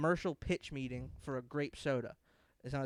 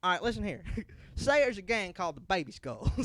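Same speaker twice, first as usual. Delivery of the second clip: lightly voiced, louder explanation; 5 semitones higher, 4 dB louder than usual. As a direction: start a wild story.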